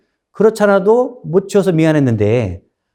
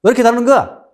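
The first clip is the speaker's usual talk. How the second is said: higher, louder indignant yelling at the butcher; angry scolding; 8 semitones higher, 4 dB louder than usual. Retold or imitated. Nobleman scolding the butcher over uneven meat, indignant. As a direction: berate him for the short weight. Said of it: "이렇게 막 뭐라고 한 거예요".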